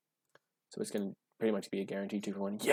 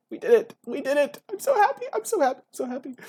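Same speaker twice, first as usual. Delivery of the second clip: very high, loud squeal of joy; rising, overjoyed; 12 dB louder than usual. Real, not acted. Player thrilled at getting the dream deck, overjoyed squealing. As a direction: squeal it out, giddy and breaking into laughter. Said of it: "you can picture that by the way my voice is".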